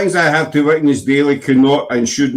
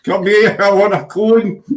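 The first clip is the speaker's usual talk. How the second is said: high mock call after a van; 7 semitones higher than usual. Chasing the ice cream van, calling out. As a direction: pretend to shout for an ice cream.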